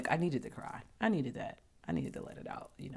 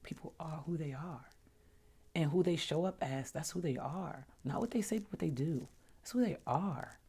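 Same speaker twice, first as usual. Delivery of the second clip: quiet self-talk; 6 dB quieter than usual. Retold or imitated. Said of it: "I remember saying to myself".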